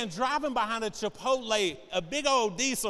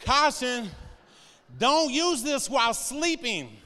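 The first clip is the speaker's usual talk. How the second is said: label read aloud; 5 semitones higher, 4 dB louder, slower than usual. Pretend. Reading a warning label aloud.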